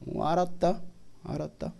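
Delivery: low, quiet stern rebuke; a hint of a stern God scolding; God rebuking. God confronting those who mock his prophet, lightly voiced quiet rebuke. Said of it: "하나님은 다 듣고 계십니다".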